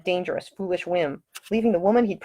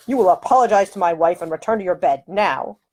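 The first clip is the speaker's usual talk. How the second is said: lordly command; 3 dB louder than usual. Acted. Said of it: "in his deepest, most lordly voice".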